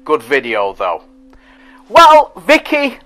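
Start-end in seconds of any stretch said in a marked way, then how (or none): 1.9-3.0 drawn-out greeting. Real, not acted. Greeting a viewer warmly.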